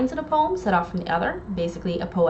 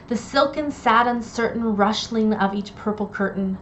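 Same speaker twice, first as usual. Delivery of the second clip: poem reading. Acted. Reads Poe's Raven aloud.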